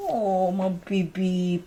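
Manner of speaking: slow, drawn-out doting coo; long, fond pet talk; cooing to dog. Real, not acted. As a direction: pour affection on a pet.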